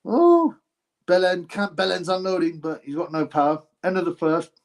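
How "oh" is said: high, louder-than-usual "oh"; startled exclamation. Real, not acted. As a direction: react sharply to the action, pitch leaping up. Reacting live to the fight.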